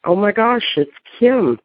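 high, startled recognition; hushed startled realization; surprised gasp. Retold or imitated. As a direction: realize suddenly who's at the door. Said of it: "I was like".

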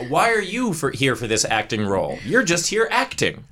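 high, incredulous mimicry of an accuser; mock-accusing rival actress. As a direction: parody her challenge with big pitch swoops. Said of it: "she's literally saying".

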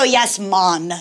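"mon" in a lightly put-on Jamaican accent; Irish attempt drifting Jamaican on "mon"; Jamaican slip. Shown as a demonstration. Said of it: "It just goes very weird".

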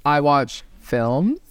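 slow, lofty film-snob voice; pretentious film snob. Retold or imitated. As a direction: look down your nose at movies, slowly. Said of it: "those kind of people that are like".

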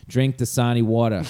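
put-on New York accent, "Dasani" as duh-SAH-nee; New York "water", WAW-tuh, in an ad read. Comic retelling their botched commercial take, New York accent. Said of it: "my New York accent is water".

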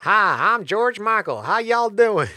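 put-on a light West Country accent, playful. Podcast host jokingly voices a singer in West Country accent. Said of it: "Got that West Country accent".

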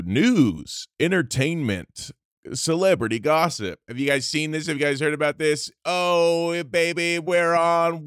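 high-energy gossip host voice; hyped show host. Pretend. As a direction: pitch it like a showbiz host. Satan Show host intro.

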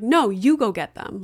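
mildly mimicked defiant child; imitated bossy refusal. Mom imitating her son's refusal, mildly defiant. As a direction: imitate a kid ordering mom around, lightly. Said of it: "Like, the way he said it".

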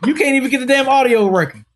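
audio hit hard, rest rushed fast; stress on audio. Retold or imitated. Friend voicing the dog, landing hard on "audio". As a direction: punch "audio" while rattling off the line fast. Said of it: "I put the emphasis on audio".

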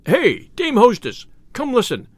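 calling out. Acted. Tipsy tinker summons the hostess to hear his song, calling out. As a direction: hail the hostess from across the room.

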